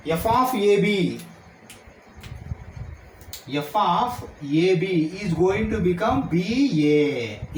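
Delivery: slow, drawn-out statement of a rule; deliberate, spaced-out teacher delivery; slow dictation. Real, not acted. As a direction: stretch each word so students follow.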